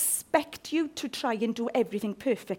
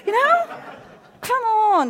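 high laughing appeal; laughing come on; 10 semitones higher, 6 dB louder, slower than usual. Real, not acted. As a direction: laugh as you coax them. Laughing at own example.

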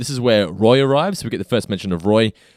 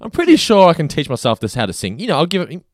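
mock self-assurance, pitched up in places; imitating co-host; 5 semitones higher, 4 dB louder than usual. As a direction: imitate your co-host's confident claim. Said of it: "that is just you".

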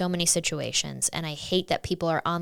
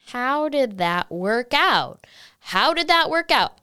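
sarcastic rhetorical question; 4 semitones higher, 3 dB louder, slower than usual. Real, not acted. Rhetorical jab at policy.

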